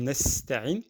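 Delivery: "nesta'in" slowly with a thin s; light sin. Shown as a demonstration. Teacher illustrating sin, light s in "nesta'in". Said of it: "comme un sin en arabe".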